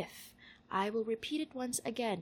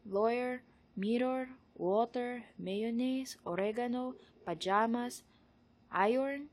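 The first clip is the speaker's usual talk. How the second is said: Tagalog accent; 3 semitones higher, 4 dB louder, slower than usual. Shown as a demonstration. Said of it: "Tagalog accent that I can muster".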